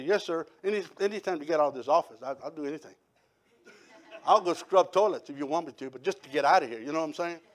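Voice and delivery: put-on a young man begging to be let out of the office; meek eager reply. Young teller pleading to pastor.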